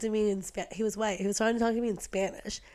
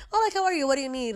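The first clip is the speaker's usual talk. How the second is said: higher-pitched polite customer-service lilt; 4 semitones higher, faster than usual. Retold or imitated. Not tapping into his Spanish, staying very polite. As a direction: put on polite helpfulness. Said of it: "I was just, like, very polite".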